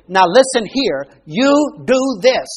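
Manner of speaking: stern instruction. Shown as a demonstration. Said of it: "That's very gentle. But you can also say".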